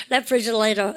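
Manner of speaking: "refrigerator" linked, the t turned r-like; American linking. Shown as a demonstration. Teacher repeating the American model for students, linked pronunciation. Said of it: "미국 애들은 발음할 때".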